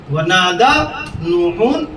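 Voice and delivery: slow drawn-out Arabic recitation; Quranic recitation. Shown as a demonstration. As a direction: recite it slowly. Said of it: "میں عربی پڑھ رہا ہوں". (آہستہ قرآنی تلاوت)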